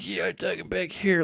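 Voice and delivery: a light mock of a rambling New Yorker; imitating Norm Finkelstein. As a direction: lightly impersonate the speaker, filler tone. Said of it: "And then his actual voice".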